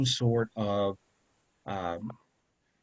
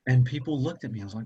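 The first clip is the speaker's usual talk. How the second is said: ordinary delivery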